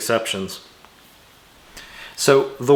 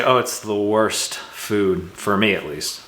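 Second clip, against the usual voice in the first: correct example; 3 semitones lower, slower than usual. Shown as a demonstration. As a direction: ease out "the worst food" as the right way. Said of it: "Instead, I would say".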